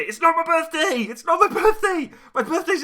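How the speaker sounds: loud, high, laughing denial; it's not my birthday, laughing; laughing protest. Real, not acted. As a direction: laugh it off loudly. Protesting a joke donation.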